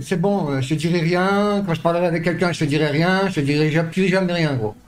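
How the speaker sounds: loud and heated; angry. Real, not acted. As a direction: snap back in anger. Angry argument with friend.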